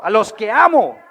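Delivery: an eager, happy declaration; excited. Shown as a demonstration. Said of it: "Dígalo emocionado".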